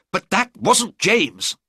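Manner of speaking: a father pleading for his son's innocence; cried out. A narrator's reading. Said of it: "cried the Duke".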